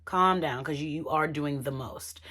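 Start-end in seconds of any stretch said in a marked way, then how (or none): 0.1-0.6 "Calm down" said louder and firmer. Shown as a demonstration. Vlogger insists Shay calm down, firmer and louder. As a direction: push "Calm down" out harder. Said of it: "Shay, Shay".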